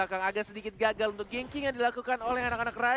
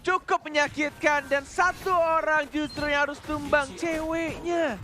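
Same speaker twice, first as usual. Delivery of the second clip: fighting game announcer; 9 semitones higher, 5 dB louder than usual. Acted.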